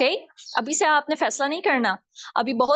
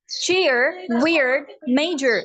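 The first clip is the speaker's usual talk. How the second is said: American accent; much slower than usual. Shown as a demonstration. American take before British repeat.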